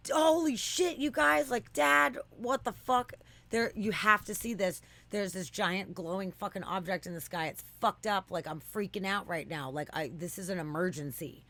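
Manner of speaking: high, loud frantic yell easing off; retold teen panicking to her dad at the campsite; panicked shout. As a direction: shout to dad, losing it, then settle a bit.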